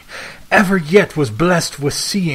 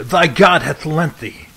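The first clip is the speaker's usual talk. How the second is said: cried out; 3 semitones higher than usual. Acted. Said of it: "I cried".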